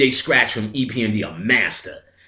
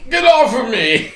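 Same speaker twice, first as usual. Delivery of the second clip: high, louder put-on yell; mock yell; 12 semitones higher, 6 dB louder than usual. Telling the guy from the skating rink to get off, mock yell. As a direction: brush him off in a hammed-up high yell. Shoving off old rival.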